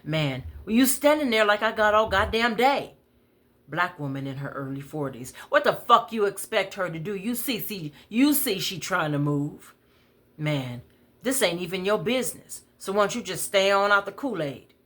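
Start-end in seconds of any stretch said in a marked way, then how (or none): 0.6-3.0 loud, much higher sarcastic yell; raised furious complaint; angry shout. Retold or imitated. Man yelling at frail woman. 5.5-9.7 loud, higher, fast outburst; raised indignant scolding; angry yell. Retold or imitated. Bystander woman yells at man. 11.2-14.7 higher, fast snapping back; raised dismissive comeback; angry retort. Retold or imitated. Man yells back at woman.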